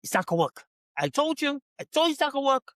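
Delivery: mocking a smug husband; smug told-you-so. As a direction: pitch jumps up on told you, gloating. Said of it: "the husband's like".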